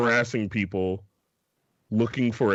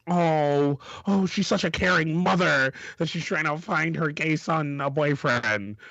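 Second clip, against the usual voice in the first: a touch of gushing, pitched up; mock cooing; 5 semitones higher than usual. People gushing over a caring mother, lightly put-on cooing. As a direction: coo it like a touched onlooker.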